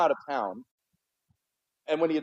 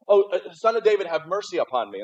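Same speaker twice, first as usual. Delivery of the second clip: mock cry out; 3 semitones higher, 3 dB louder than usual. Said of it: "he goes".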